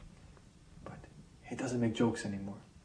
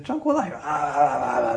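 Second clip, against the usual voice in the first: high, laughing call of the name; laughing tease; 5 semitones higher, 8 dB louder than usual. Retold or imitated. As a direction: giggle it at him playfully. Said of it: "teasing old policeman".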